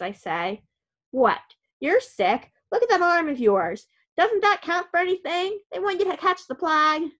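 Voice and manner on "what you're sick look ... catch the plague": put-on an old man outraged on her behalf; mock-outraged grandfather railing at the hospital; indignant grandpa rant. A narrator's reading. Grumpy grandpa ranting loudly.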